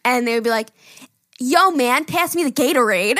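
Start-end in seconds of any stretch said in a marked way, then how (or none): 1.4-3.2 raised mock-American dude voice; Brit imitating an American. Retelling a British friend's teasing, mock American accent. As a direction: mimic a Brit's broad American accent. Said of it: "heavy British accents".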